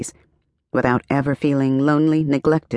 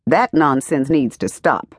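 mild mock yell. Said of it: "she yelled".

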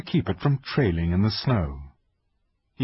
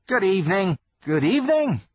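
shy fawn voice; 10 semitones higher, 4 dB louder than usual. Acted. Fawn greets Lucy.

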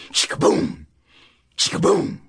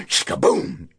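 usual speaking voice

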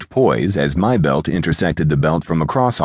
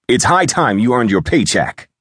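high, scolding raised voice; impatient, pitched-up telling-off; yelled reprimand; 7 semitones higher than usual. A narrator's reading. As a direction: scold an idle employee from on high. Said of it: "he yelled".

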